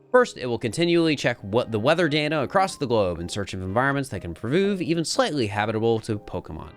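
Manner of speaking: measured, earnest document read; lore log narration. Acted. Program's creator confessing the backup plan, earnest narration. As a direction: read it aloud as a serious written confession.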